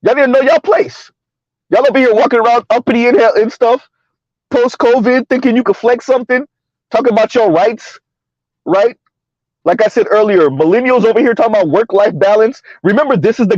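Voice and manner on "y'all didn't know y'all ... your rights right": mock smug CEO. Mocking CEO voice continues.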